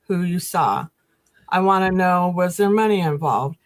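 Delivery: lightly voiced stern interrogator; interrogation. Lieutenant interrogates a suspect about last night, mildly stern. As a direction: press for details like a lieutenant, only a hint. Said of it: "the interrogation".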